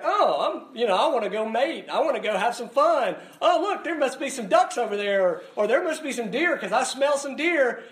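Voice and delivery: hammed-up eager critter; playful duck voice. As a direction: voice the lured duck, giddy and naive. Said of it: "and they're like".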